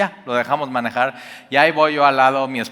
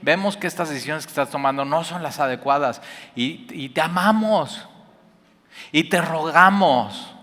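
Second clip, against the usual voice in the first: loving plea. Retold or imitated.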